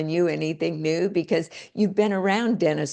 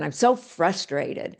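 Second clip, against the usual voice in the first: mock frustrated sigh; slower than usual. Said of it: "A lot of people go around".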